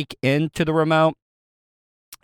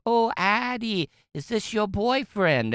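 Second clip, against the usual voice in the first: put-on nosy older lady; 8 semitones higher, 4 dB quieter than usual. Older lady asking Addie about her boyfriend, lightly voiced and higher. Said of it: "one of the older ladies came up and was like".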